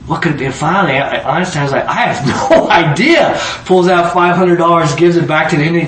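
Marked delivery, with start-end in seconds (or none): 1.9-3.4 higher, hammed-up admission of defeat; mock exasperation. Einstein giving up on the riddle, mock exasperated. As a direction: throw up the answer in mock bafflement.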